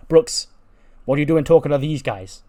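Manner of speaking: high, loud call of his name; Tonya calling out. Acted. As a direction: yell at Brooks in alarm. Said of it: "Tonya Breeze walks up and goes".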